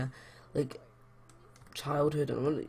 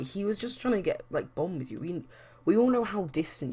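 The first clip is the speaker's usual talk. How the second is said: pitched-up, indignant telling-off; indignant scolding; 4 semitones higher than usual. Acted. Sharon tells off Brandon for his insults, indignant. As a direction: scold him like he crossed a line.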